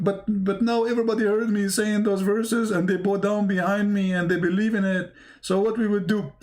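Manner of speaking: lightly acted fretting, stammered start; mock-flustered plea running on without breaks; worried Muhammad. Muhammad frets that everybody heard him, mildly worried plea. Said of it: "Prophet Muhammad".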